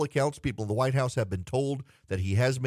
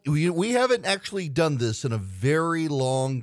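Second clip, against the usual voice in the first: booming show opener; 3 semitones higher, 3 dB louder than usual. Acted. Opens the game segment.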